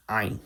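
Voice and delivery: Ayin opening on the Arabic throat consonant; Ayin, its first sound as in Arabic; Arabic-style Ayin. Shown as a demonstration. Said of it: "is pronounced like the Ayin that exists in Arabic".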